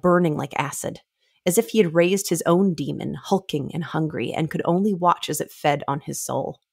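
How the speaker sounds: measured, weighty book reading; dramatic reading. Acted. Podcast host reads a troll's grief aloud, measured and weighty. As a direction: read it like a grim inner monologue.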